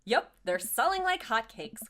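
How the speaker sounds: lightly acted, bright hello to a spouse; hint of a chipper husband. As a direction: perk up a little for the wife. Acting Joseph greeting his wife.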